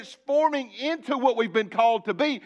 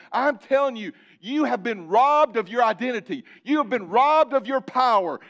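rising pulpit refrain with robbed hammered; preacher building toward a climax; fired-up preaching; 2 semitones higher than usual. Acted. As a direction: drive it home to the congregation. Rousing sermon climax.

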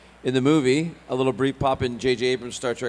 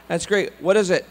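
loud, higher Scottish questioning; Scottish father; 7 semitones higher, 6 dB louder than usual. Retold or imitated. Dad asking son about show, eager Scottish. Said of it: "my parents have a very thick Scottish accent".

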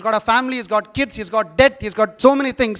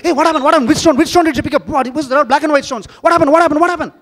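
higher, louder confused clamour; puzzled crowd; 6 semitones higher, 4 dB louder than usual. Retold or imitated. Villagers react when the daughter drops the stone, excited and loud. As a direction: voice the villagers' rising commotion. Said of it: "People are like".

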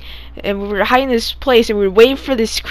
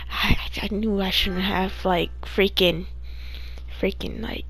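dropping to a near whisper; hushed; 3 semitones lower, 14 dB quieter than usual. Real, not acted. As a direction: hush it like it's still creepy. Creepy memory told in hushed voice.

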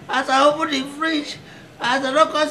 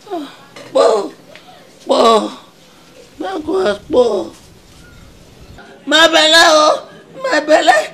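groaning in pain; 4 semitones higher than usual. Acted. Writhing in belly pain.

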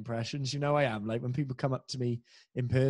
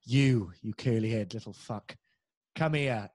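imitating drag queen; 3 semitones lower, slower than usual. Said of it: "I heard".

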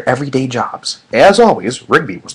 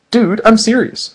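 serious Mordecai; 8 semitones higher, 4 dB louder, slower than usual. A narrator's reading. Mordecai insisting.

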